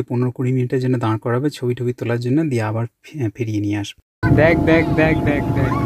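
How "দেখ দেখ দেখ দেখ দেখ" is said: urgent, eager look look; calling out to look; excited calling. Real, not acted. Pointing out the waterfall excitedly.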